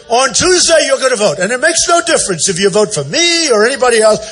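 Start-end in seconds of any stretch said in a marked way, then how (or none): 0.1-1.4 a lightly voiced stock politician, pitched a bit higher; mocking a politician. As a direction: toss off the line like a canned politician's slogan. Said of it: "these politicians where they say".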